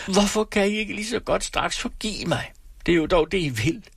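high, piercing accusing scream. A narrator's reading. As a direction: scream it with clenched fists. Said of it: "knyttede hun hænderne og skreg".

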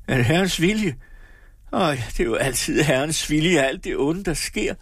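high-pitched bitter outcry; bitter protest. A narrator's reading. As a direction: throw it back in bitter protest. Daughter defies mother's faith.

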